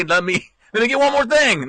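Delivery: high, pleading mock voice; a hint of a dawdling evacuee; pleading resident. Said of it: "Don't say".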